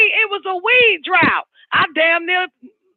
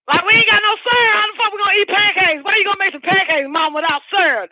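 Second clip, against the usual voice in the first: put-on whining kid; 4 semitones higher, faster than usual. Kid complaining to mom.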